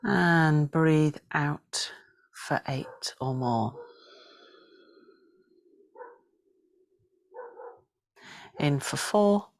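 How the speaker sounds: slow, elongated breath cues; breathing guidance. Shown as a demonstration. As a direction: draw out each cue, leaving long pauses. Counts breaths in and out.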